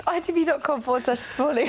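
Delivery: laughing. Real, not acted. Reading web address while laughing.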